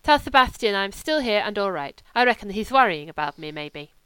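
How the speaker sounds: a hint of a lazy wolfish German drifter; German legionnaire. German voiced in the story.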